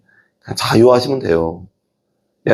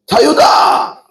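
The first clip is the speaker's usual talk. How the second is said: high shouted "자유다!" with hands raised; freedom shout; 8 semitones higher, much slower than usual. Shown as a demonstration. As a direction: cry out 자유다 in triumph. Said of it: "손 들고 해야지". (손 들고 "자유다!" 외치기)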